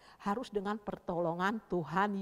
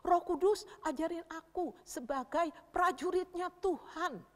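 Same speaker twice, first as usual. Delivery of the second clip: higher, steady pleading prayer; demonstrated prayer; 6 semitones higher than usual. Shown as a demonstration. The speaker showing children how to pray, earnest prayer. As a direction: ask earnestly, phrase by phrase. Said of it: "kalau kakak berdoa gini".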